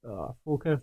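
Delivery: talking around a pipe stem; words round a pipe; pipe in mouth. Real, not acted. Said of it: "It's hard to actually see with the pipe in my mouth".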